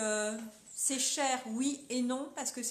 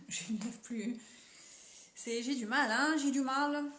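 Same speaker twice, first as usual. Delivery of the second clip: giggling. Real, not acted. Laughing while doing her lips.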